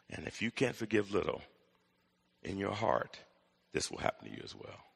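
low, hushed solemn warning; quiet, sobering pronouncement; grave warning. Acted. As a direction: drop soft and low, pausing between phrases. Jesus' grave warning closing parable.

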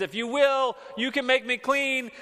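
loud, high desperate plea; a leper's loud begging cry. Retold or imitated. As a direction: cry out to Jesus, imploring. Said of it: "he's crying out, he's imploring Jesus".

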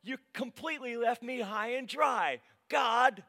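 loud, high-pitched rant at God; outraged protest, hammed up; exasperated prayer. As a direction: shout your complaint up to heaven. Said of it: "Have you ever had this prayer?".

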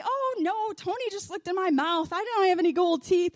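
high-pitched dismissive protest; protesting mom. Retold or imitated. Mom refusing the mouth check, protesting. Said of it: "She's like".

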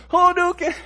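high, loud video game fireball yell; Street Fighter move call. Retold or imitated. Preacher joking Jesus fought demons, game-move yell. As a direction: shout it like a fighting game attack. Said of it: "like, a Street Fighter match".

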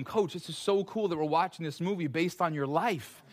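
half-laughing jab at the coach; mock praise, laughing at the coach; laughing mock tease. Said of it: "resisting the urge to say to him".

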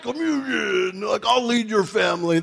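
hammed-up shouting pastor crashing the family dinner; Kool-Aid Man burst-in. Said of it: "like that big Kool-Aid guy and break through your wall".

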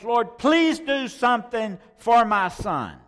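high, loud begging; father begs the Lord, desperately pleading; desperate plea. Acted. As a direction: lean hard on please. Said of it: "In other words".

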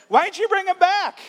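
high, loud cartoon villain voice; hammed-up high villain demand; villainous priest. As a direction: twirl the mustache and demand it. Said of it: "twirling it and saying".

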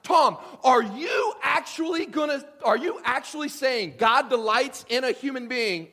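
loud, high shocked challenge to the pastor; incredulous churchgoer. Pretend. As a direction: call out in disbelief from the pews. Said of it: "and you're going".

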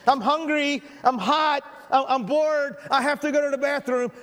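put-on whiny kid in the back seat; whiny tattling little sibling. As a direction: nag like a bored little kid. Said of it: "by saying such things as".

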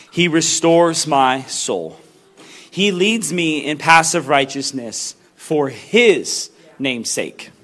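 slow, solemn reading of the psalm; scripture reading. Acted. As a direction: read it like holy text, unhurried. Reads Psalm 23 aloud.

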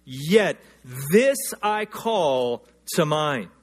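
drawn out, weighty reading; lingering on each word of the verse; slow scripture reading. Acted. Preacher reading the verse slowly to the congregation.

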